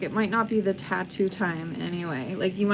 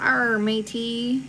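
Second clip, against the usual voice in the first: pirate voice; 2 semitones higher, much slower than usual. Acted. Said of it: "I don't know how to talk like a pirate".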